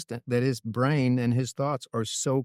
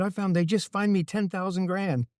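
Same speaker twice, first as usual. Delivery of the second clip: imitated Italian complaint, higher pitched; Italian driver griping, retold; Italian accent; 6 semitones higher than usual. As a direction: put on an aggrieved Italian accent. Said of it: "in his Italian accent".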